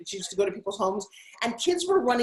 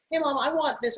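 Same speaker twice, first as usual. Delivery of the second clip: put-on higher-pitched child's request; lightly voiced nine-year-old; kids asking mom; 5 semitones higher than usual. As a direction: call to Mom like a wanting kid. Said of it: "My son and daughter were like".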